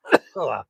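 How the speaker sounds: just swallowed a fly. Real, not acted. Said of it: "I guess I'm getting protein".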